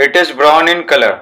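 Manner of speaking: each word slow and separate for the class; slow reading aloud. Shown as a demonstration. Teacher dictating a textbook sentence to pupils, slow and deliberate. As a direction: read it out slowly so pupils can write it down.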